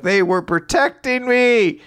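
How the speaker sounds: high, loud, drawn-out mock wail; lightly hammed-up tearful protest; mock crying. Podcaster imitating Shiki crying over the robots, mock crying. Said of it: "Shiki cries 'cause he's like".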